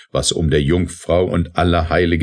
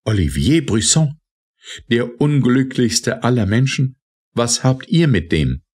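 higher, louder eager cry; called out loud; 7 semitones higher than usual. A narrator's reading. Scuderi crying out to the officer, high and loud. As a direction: call out, desperate for news. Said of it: "rief laut".

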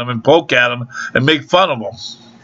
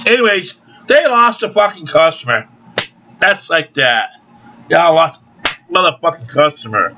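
usual speaking voice

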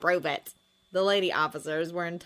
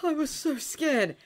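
whispering; 10 semitones higher, 3 dB louder than usual. A narrator's reading.

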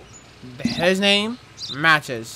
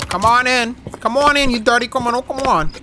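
calling out; 5 semitones higher, 4 dB louder than usual. Pretend. Playing guard calling vehicle in.

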